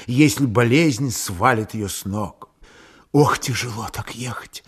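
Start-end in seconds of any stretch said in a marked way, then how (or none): 3.1-4.6 weary, breathy whisper. A narrator's reading. Sick woman whispers to her man, pressing close. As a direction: whisper the complaint weakly. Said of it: "шептала Аксинья".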